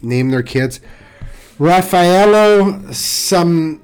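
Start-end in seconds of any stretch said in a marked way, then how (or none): 1.6-3.8 put-on slow, drawn-out Italian accent. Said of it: "a certain flow to your Italian accent".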